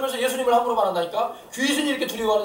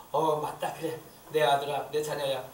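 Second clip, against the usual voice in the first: low, gentle affirmation; approving father's voice; 5 semitones lower, slower than usual. Retold or imitated. The Lord answering a believing child, gently approving. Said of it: "우리 주님이 뭐라고 할까".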